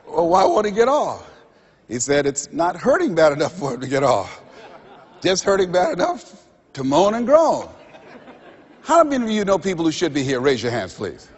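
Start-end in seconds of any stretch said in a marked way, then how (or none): 0.1-7.7 telling the joke with a laugh in the voice; laughing through the punchline. Retold or imitated. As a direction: chuckle through the punchline of the dog story.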